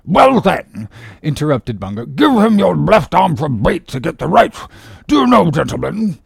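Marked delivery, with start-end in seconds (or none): 0.0-0.9 high, loud pompous doctor; interrupting surgeon. Acted. Surgeon breaking into captain's talk, pompous. 2.0-6.2 high, loud, self-important doctor; pompous surgeon. Acted. Surgeon advising left arm as bait, pompous.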